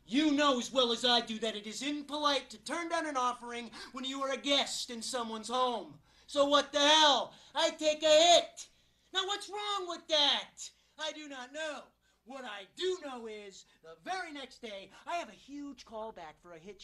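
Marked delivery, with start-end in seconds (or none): 6.3-10.7 high, loud self-justification; defensive protest. Acted. Guest excusing himself for taking a hit, loudly defensive. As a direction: plead your innocence, pitched up and insistent.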